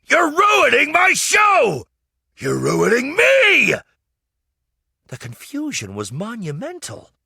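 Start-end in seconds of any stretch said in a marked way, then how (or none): 0.0-3.7 loud, high, slow panicked plea; desperate cry. A narrator's reading. Puppeteer pleading with the knight, loud desperate cry. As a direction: beg him to stop, frantic. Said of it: "Master Peter cried".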